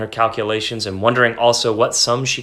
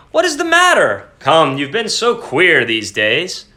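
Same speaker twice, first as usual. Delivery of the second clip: husband voice; 2 semitones higher than usual. Acted. Husband speaks, higher voice.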